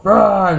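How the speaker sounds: sudden imitated monster noise; imitated film roar. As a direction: mimic the horror-film sound as the attacker grabs. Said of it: "you actually hear the sound".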